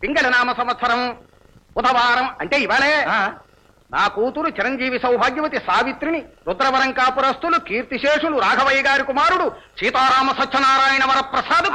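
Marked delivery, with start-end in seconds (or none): 0.0-2.3 measured invitation reading; reading aloud. Acted. Man reads a wedding card to the gathering, reading aloud. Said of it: "చదువుతాను, అందరూ వినండి". 4.0-11.7 measured invitation reading; reading aloud. Acted. Man reads a wedding card to the gathering, reading aloud. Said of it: "చదువుతాను, అందరూ వినండి".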